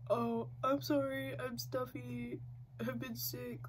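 lightly voiced whiny YouTuber apology; a hint of a fake-sorry creator voice; mildly mocking a stuffy YouTuber apology. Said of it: "when YouTubers are like".

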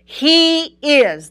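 "is" set apart with firm emphasis; stress on IS. Real, not acted. Preacher underlining the present tense, "is" emphasized. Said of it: "I want to emphasize the word is".

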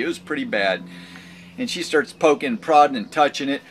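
ordinary talk, nothing marked

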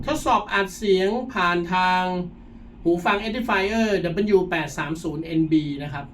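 recorded through headphone mic; thin earbud microphone sound. Shown as a demonstration. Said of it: "เสียงที่ได้ออกมาเป็นแบบนี้เลยครับ".

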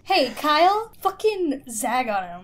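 loud rising damn, climbing high; impressed whoop. Real, not acted. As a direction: cheer on a burn. Reacting to a savage burn.

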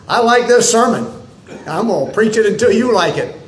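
mock stubborn preacher. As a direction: tease the congregation with a stubborn threat. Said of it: "I said".

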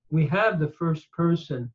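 ordinary talk

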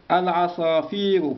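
العصافير spoken slowly, pitch up then falling; slow, drawn out. Shown as a demonstration. Teacher drags out the noun for pupils. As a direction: draw out العصافير syllable by syllable. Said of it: "العصافير هو".

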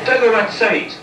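high, loud exasperated curse; furious yell. Real, not acted. Gamer cursing the game's monster, furious yell. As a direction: hurl the insult at the game.

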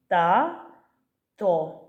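"Та-то" split into two separate syllables with a pause between. Shown as a demonstration. Teacher counting syllables for children, "Та-то" said syllable by syllable. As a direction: say "Та-то" broken apart, each syllable on its own. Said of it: "Скільки в цьому слові складів".

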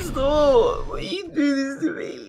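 high, whiny fake sob; mock crying. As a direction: wail like a sore loser. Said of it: "now that you're crying".

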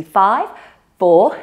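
breathless counting mid-exercise; out of breath. Real, not acted. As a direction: count through heavy breathing. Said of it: "I'm getting a little bit out of breath".

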